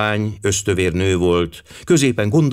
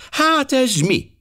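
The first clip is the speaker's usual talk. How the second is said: surprised; much slower than usual. Acted. Jebb finds the cufflink.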